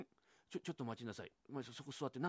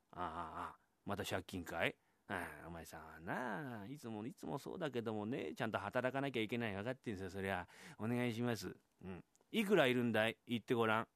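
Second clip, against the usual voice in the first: put-on old retiree; 4 semitones lower, 4 dB quieter than usual. Old retiree lectures the borrower.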